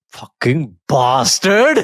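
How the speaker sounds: slow, drawn-out mock curse at the screen; mock angry outburst. Old dad cursing at the TV screen, slow mock outrage. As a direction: spit it out slowly like an outraged old man. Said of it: "he just started getting angry".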